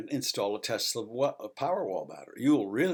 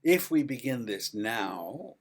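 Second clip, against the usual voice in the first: ordinary delivery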